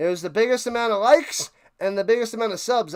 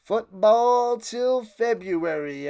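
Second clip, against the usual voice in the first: slow, drawn-out announcer call; big slow sign-off catchphrase; announcer slogan; much slower than usual. Pretend. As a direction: stretch the slogan like a broadcaster.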